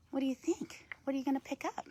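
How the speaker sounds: hushed whispered question; curious whisper to the raven on her glove. Real, not acted. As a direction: ask it softly, breath only.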